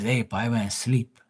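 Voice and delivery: lightly voiced dad making his excuse; imitating dad. Dad excusing himself to his son, lightly imitated. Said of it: "That's how he talked".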